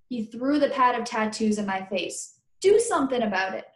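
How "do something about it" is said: dare. Acted. Daring friend, throwing the pad.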